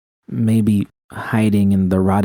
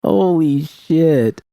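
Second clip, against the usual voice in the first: high, slow, drawn-out astonished exclamation; exclaiming; 8 semitones higher, much slower than usual. A narrator's reading. Judy seeing the dam, exclaiming in awe. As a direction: let it spill out in stunned amazement. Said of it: "I exclaimed".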